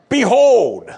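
loud, high, awed proclamation; excited groom. Pretend. Groom sees bride and loudly proclaims in awe. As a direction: call it out like a thrilled groom. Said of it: "you're a groom ... there she is".

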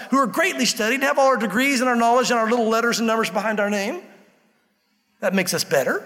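indignant, proud questioning, lightly acted; mildly angry Pharisees. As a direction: imitate offended religious leaders with a touch of anger. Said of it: "I know they said it angrily".

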